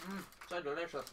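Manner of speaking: talking while eating crisps; mouth full. Real, not acted. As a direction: speak round a mouthful. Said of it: "whilst I eat my crisps".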